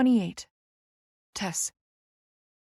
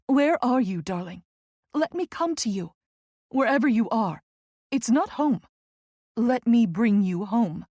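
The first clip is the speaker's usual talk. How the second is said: pleading; 3 semitones higher, 3 dB louder than usual. A narrator's reading. Friend begging to bring Tess home, pleading. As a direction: plead gently, lifting the pitch. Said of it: "she pleads".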